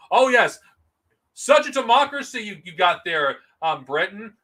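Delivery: mock praise, dripping sarcasm; sarcastic. Vlogger mocking British democracy, sarcastic. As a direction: sneer it like fake congratulations.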